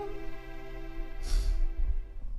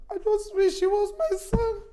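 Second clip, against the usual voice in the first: higher, emphatic lament; anguished wish; 4 semitones higher than usual. Acted. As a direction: press the wish out with feeling. Mother repeats wish with more force.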